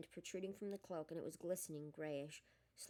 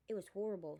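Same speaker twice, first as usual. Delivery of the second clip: higher voice; 5 dB louder than usual. Acted. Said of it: "in a higher voice than usual".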